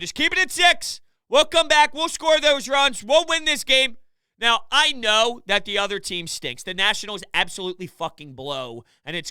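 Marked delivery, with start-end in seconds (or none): 0.0-4.0 raised, higher rallying cry; retold screaming. Player quoting the clubhouse rallying mid-game, mock yelling. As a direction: imitate teammates yelling encouragement. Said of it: "Everyone in the clubhouse was screaming".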